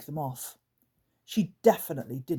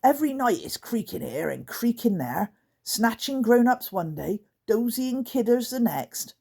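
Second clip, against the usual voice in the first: trying not to laugh; 7 semitones higher, 3 dB louder than usual. Acted. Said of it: "His voice started to sound rather strange".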